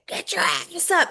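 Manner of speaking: imitated screaming coach. Mentor at a mastermind yelling at the room, mock yell. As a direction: throw out a hammed-up coach's holler. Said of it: "he's just screaming and hollering".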